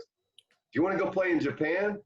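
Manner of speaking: Tommy Lasorda impression. Lasorda cold-calling Kevin about Japan money, high hearty pitch. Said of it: "he goes".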